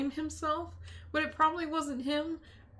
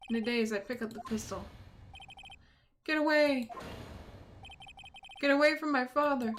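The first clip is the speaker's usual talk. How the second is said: lightly voiced dialogue, dramatic; a hint of a troubled young attorney; game character read. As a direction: read the scene like a grave courtroom drama.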